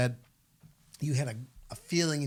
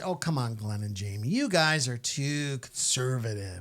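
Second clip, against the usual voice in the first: mocking critics. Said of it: "I could just hear some people say".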